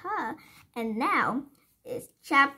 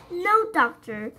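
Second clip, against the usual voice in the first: high and louder, slow; child voice blurting it out loud; loud childish refusal; 7 semitones higher, 4 dB louder, slower than usual. A narrator's reading. Little girl refusing the window cleaner out loud. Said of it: "she said out loud".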